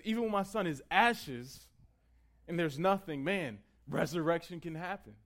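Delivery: loud, high preacher's proclamation as the patriarch; bold declaration. Acted. Preacher voicing Abraham's faith in resurrection, boldly declaring. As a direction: proclaim it with ringing conviction.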